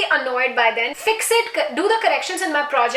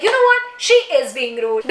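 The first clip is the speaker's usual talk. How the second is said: burst out. Retold or imitated. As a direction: blurt it out hard, then land it flat. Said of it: "I suddenly burst out that".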